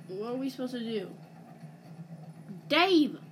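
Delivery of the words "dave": loud urgent call; shouting a name. Real, not acted. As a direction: shout the name to get attention. Calling out to teammate.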